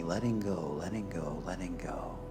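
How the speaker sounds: gentle fade as the body releases; soft releasing cue. Real, not acted. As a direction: let the words drift down toward a murmur.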